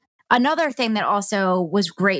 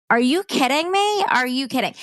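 much higher, disbelieving "are you kidding me"; incredulous outburst; 6 semitones higher than usual. Retold or imitated. Hearing her mother's words in hospital, incredulous outburst. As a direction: fling it up in outraged disbelief. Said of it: "really just upset 'cause I'm just like".

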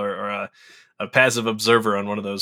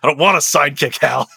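laughing through lines; 5 semitones higher, 6 dB louder than usual. Acted. Superhero rebuffs Hal, laughing.

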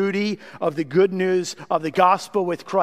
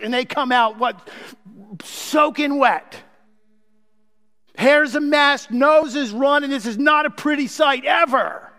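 rising preaching; 4 semitones higher than usual. Acted. Preaching at full force.

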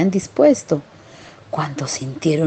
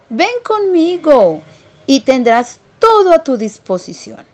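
lightly raised, boastful city mouse voice; a hint of a smug city mouse showing off; 5 semitones higher than usual. Cortesano voiced in story. (ratón cortesano presumido, voz algo más aguda)

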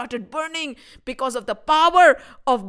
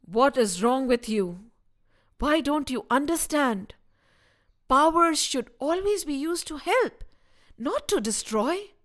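calm guru; 5 dB quieter than usual. Acted. Calm guru rebukes villain.

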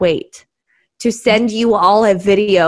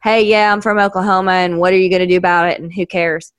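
fast, light hick twang; super hick; faster than usual. Pretend. Oklahoman newcomer in Ohio, fast hick accent. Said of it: "sound super hick".

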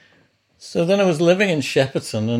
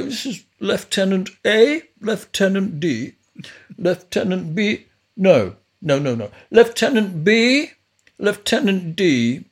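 imitating Chris naming cats; 7 semitones higher, 4 dB louder than usual. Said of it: "And he'd go".

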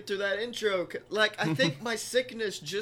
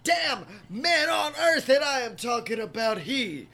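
announcer; 3 semitones higher than usual. Acted. Podcast intro hype.

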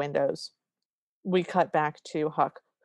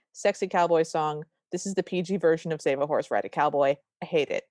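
ranting notes. Acted. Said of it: "I'm just gonna read you my notes".

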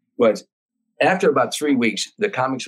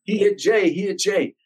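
higher, panicked retold cry; imitating screaming girls; 8 semitones higher than usual. Girls scream that Biff hit Jay, imitated panic. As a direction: voice the girls' alarm in a raised pitch. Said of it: "the girls start crying and screaming".

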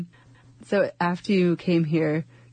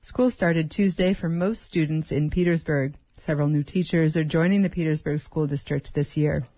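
measured public-radio introduction; radio news read. Acted. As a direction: read the story intro as a local news host. Radio host reads the introduction.

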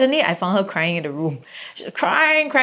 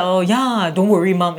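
voice breaking. Retold or imitated. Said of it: "You know, voice breaking".

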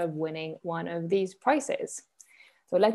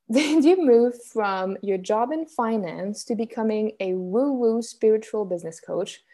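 incredulous question; 3 semitones higher, 3 dB louder than usual. Retold or imitated. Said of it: "some people are like".

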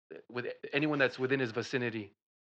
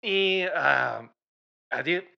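caveman talk; 2 semitones higher, 9 dB louder, slower than usual. Acted. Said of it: "talking like a caveman".

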